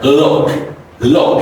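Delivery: teacher demo, stretch the word look. Shown as a demonstration. Teacher modelling look for students, stretched and open. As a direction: look drawn out with an open mouth. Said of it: "So you speak like".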